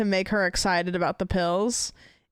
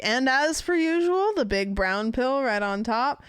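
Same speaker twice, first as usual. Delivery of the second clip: Italian chef; 4 semitones higher than usual. Retold or imitated. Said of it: "as if I'm like an Italian chef".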